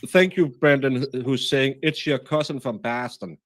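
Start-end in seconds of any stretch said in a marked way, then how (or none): 1.8-3.4 put-on Boston accent. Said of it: "I do a, a Boston accent".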